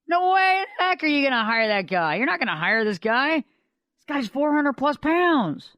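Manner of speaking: high-pitched mock disbelief; hammed-up, emphatic incredulity; incredulous dismissal. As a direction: act out a scornful onlooker. Townspeople scorn the trainer.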